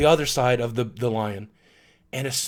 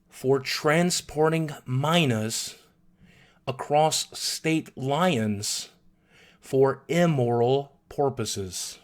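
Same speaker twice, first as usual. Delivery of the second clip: slow bullhorn deadpan; 4 dB quieter, much slower than usual. Retold or imitated. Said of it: "the voice through the bullhorn says".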